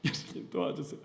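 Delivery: 예수님, 도와주세요 whispered unvoiced as a desperate inner prayer; silent prayer. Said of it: "속으로 기도하죠".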